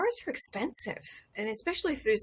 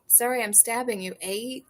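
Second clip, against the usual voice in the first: put-on Canadian accent. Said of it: "I'm trying to do the Canadian accent".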